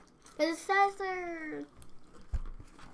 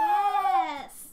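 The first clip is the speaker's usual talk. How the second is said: whiny shout; 2 semitones higher, 6 dB louder than usual. Real, not acted. Child insists on saving best.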